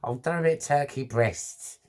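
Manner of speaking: lightly voiced East End neighbour, doting; a hint of a doting Cockney neighbour; imitating an East End neighbour. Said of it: "She's a real East End girl".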